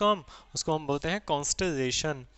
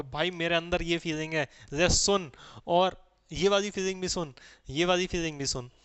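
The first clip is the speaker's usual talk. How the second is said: lightly acted eager oversharer; happy oversharing. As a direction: play someone gladly pushing feelings on a friend, mildly. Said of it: "खुश होके बताता हो". (खुश होकर बढ़-चढ़ के बताने का हल्का अभिनय)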